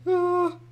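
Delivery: high loud scream of alarm; startled scream. Real, not acted. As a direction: shriek in fright. Animal in danger.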